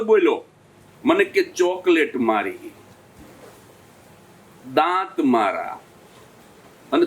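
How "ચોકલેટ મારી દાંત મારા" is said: put-on slow, low, cocky child's retort; cheeky kid. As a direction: drawl it out like a smug kid. Kid's cheeky retort quoted.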